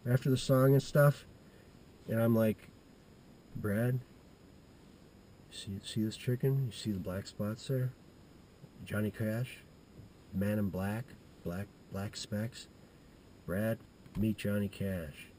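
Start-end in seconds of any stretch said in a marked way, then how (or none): 3.6-15.3 low, hushed, slowing at the end; hushed retold introduction. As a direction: murmur it like a secret reveal. Boy introducing chicken to friend.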